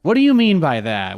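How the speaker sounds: put-on high, loud valley girl question; lilting valley girl voice. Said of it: "Why we sounding like a valley girl".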